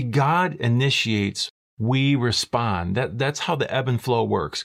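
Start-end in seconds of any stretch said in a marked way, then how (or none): 0.0-3.0 very slow, each word weighed; slow emphatic. Shown as a demonstration. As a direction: lay it down slowly and deliberately. Preacher stating key principle.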